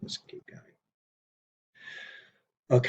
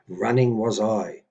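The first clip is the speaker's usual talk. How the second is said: slower, with emphasis on "Running"; stress on RUNNING; 4 dB louder than usual. Shown as a demonstration. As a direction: lean on "Running" at the front of the phrase. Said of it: "I want to emphasize the word running".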